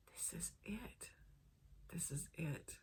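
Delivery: hushed, breathy, real welling emotion; choked up. Real, not acted. Woman recalls the book that gave her hope, choked up. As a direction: let the voice catch and nearly give out, softly. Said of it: "I'm getting a little choked up".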